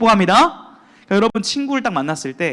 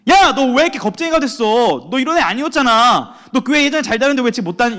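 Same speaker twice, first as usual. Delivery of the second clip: scolding; 5 semitones higher than usual. Retold or imitated. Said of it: "이렇게 하신 게 아니라".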